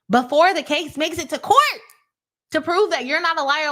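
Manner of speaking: getting heated, voice pushed up and insistent; upset and heated. Real, not acted. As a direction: vent like you're fed up with the lawyer. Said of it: "I'm so upset about it".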